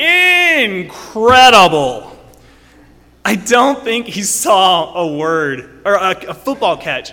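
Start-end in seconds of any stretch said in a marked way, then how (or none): 0.0-2.1 loud, pitched-up, mocking exclamation. Imitating how his dad mocked the word, loud, imitating dad's mockery. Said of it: "He would always get really, you know, loud and be like".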